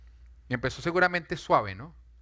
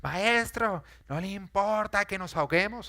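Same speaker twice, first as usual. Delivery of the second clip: maestro yelled high and loud; rude shout; 6 semitones higher, 4 dB louder, slower than usual. Acted. Disciples yelling rudely at Jesus in the storm. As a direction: yell maestro rudely in panic. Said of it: "No, gritaron".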